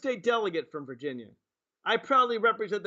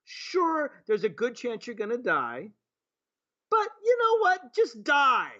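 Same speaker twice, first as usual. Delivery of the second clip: mock the claim with a bitter edge; answering the president, biting sarcasm; 3 semitones higher than usual.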